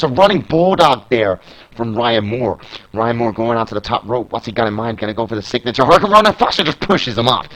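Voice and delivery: brisk wrestling commentary, calling each move; play-by-play. Acted. Commentator calling a video game wrestling match, brisk play-by-play. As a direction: call the match like a ringside commentator.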